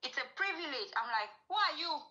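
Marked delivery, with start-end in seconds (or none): 0.0-0.9 higher-pitched, indignant questioning; mildly acted haughty challenge; retold arrogance. Retold arrogant man confronting her. 1.5-2.0 higher-pitched challenge; acted indignant comeback; retold defiance.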